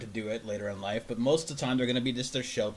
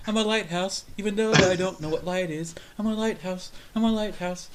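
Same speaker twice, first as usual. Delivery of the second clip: higher, proud sing-song voice; higher proud childlike boast; proud naive attendee; 6 semitones higher, 6 dB louder than usual. Retold or imitated. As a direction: announce it like a beaming child. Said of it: "my mama would be so proud".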